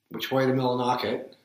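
Down East Maine local asking directions; Maine accent. Retold or imitated. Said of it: "I lived in Maine".

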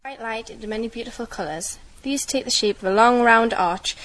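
steady, careful reading voice; measured reading-passage delivery; read-aloud passage. Acted. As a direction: read it like a set text. Reads the Rainbow Passage.

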